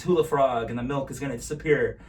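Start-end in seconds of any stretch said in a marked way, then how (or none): 0.0-0.7 magic words. Pretend. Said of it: "say the magic words".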